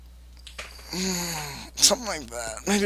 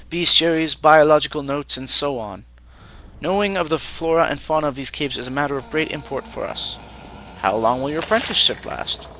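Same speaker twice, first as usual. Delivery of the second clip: lightly voiced formal mage; stiff, formal alien apprentice; Vanatai mage voice.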